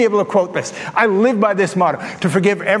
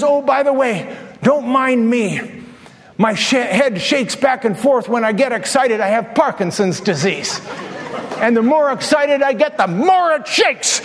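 cheerful explanation; 3 semitones higher than usual. Retold or imitated. Woman explains her Parkinson's.

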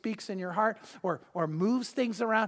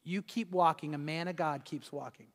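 lower, softer voice of God; quiet, lowered divine voice telling him to keep going; 4 semitones lower, 5 dB quieter than usual. Retold or imitated. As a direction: speak it as a calm inner command, hushed. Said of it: "And the voice said".

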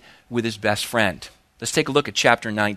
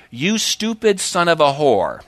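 blunt quoted curse; 3 semitones higher, 3 dB louder than usual. Retold or imitated. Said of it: "It says, quote".

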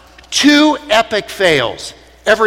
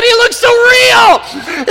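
put-on old lady marvelling; 13 semitones higher, 6 dB louder, slower than usual. Old ladies marvel at wax figure.

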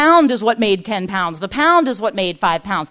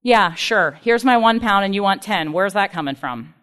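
sarcastic; 4 semitones lower than usual. Retold or imitated. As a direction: play along doubtfully, voice dropping away at the end. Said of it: "That's sarcastic. That's like".

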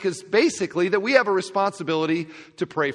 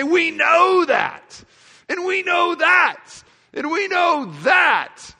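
much higher, louder, slow triumphant shouts; shouts of confidence; 13 semitones higher, 7 dB louder, much slower than usual. Retold or imitated. John preaching the letter's end to believers, shouting. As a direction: proclaim it like a fired-up preacher. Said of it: "three shouts of confidence".

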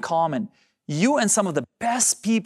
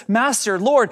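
urgent, mildly breathless messenger; higher, louder cry after running up; lightly acted winded plea; out of breath; 4 semitones higher, 4 dB louder than usual. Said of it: "runs up to Jesus all out of breath".

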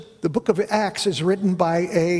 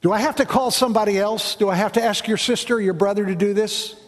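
exasperated asking; 2 semitones higher, faster than usual. Shown as a demonstration. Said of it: "Maybe he said".

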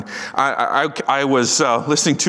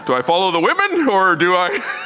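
higher, half-laughed question; laughing doubt; 4 semitones higher than usual. Retold or imitated. Father wonders whether to follow his son: laughing, mock doubtful. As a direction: chuckle through the dilemma, mock unsure. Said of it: "I'm sitting in my kayak going".

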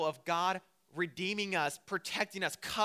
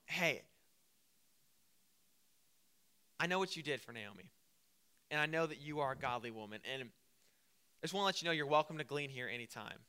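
low, softer, measured approach to a woman; respectful approach; 3 semitones lower, 5 dB quieter than usual. Acted. Boaz approaches Ruth in the field, respectful and low-key. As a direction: gently let her know she's welcome. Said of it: "That is how you approach a girl".

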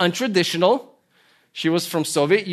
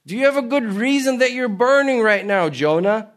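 much higher, louder searching question; God questioning; 7 semitones higher, 4 dB louder than usual. Acted. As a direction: press Jonah like a probing God. God's voice questioning Jonah.

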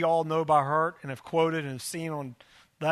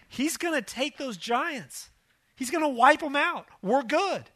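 a lightly voiced, higher, earnest pep talk; rally the doubters with rising hope; mildly voiced Joshua and Caleb rallying the crowd; encouraging spies; 5 semitones higher than usual. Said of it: "rise up and go".

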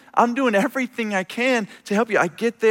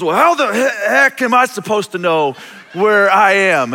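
angry caller; 2 semitones higher, 3 dB louder than usual. Retold or imitated.

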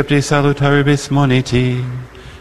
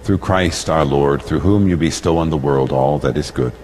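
solemn prayer; 6 semitones lower than usual. Acted. Priest prays aloud at Mass.

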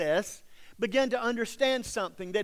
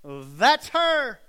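a louder, higher mock of the accusing crowd, slow on wretched woman; jeering townsperson; 4 semitones higher, 6 dB louder, much slower than usual. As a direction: point her out to the town with scorn. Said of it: "in the center of town and go".

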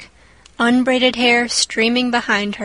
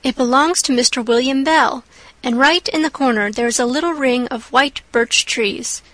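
put-on lively girl, rushing at times; chatty young girl. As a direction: chatter on dreamily. Anne chatters while sewing.

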